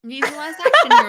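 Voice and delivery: loud, high Arnold Schwarzenegger shout; Arnold impression. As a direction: belt it like an action movie trailer. Quote echoed loudly.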